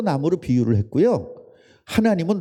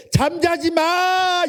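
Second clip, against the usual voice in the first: drawn-out high shout; a long, stretched scolding cry; exasperated yell; 13 semitones higher, much slower than usual. Retold or imitated. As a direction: yell it out, slow and high, fed up. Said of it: "이렇게 되는 거야, 열 배로".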